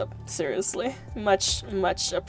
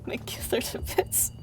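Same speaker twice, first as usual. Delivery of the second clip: whispering; 2 semitones higher, 6 dB quieter than usual. Real, not acted. Whispered thanks to donor.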